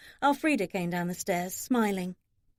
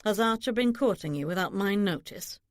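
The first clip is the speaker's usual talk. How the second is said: level, uninflected question; evenly pitched, restrained query; without inflection. A narrator's reading. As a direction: ask it with no rise or fall. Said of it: "asked without inflection".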